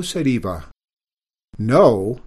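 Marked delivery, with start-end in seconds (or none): 1.6-2.2 loud, startled question; astonished. A narrator's reading. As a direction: gasp it out in disbelief. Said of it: "they chorused in astonishment".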